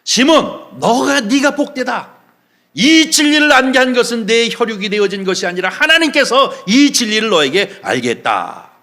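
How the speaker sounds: hearty pronouncement from the pulpit; emphatic praise. Acted. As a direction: commend him with full-voiced authority. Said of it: "주님 앞에 칭찬을 받았어요".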